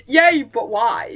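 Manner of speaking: laughing through it. Retold or imitated. Retelling cute couple line.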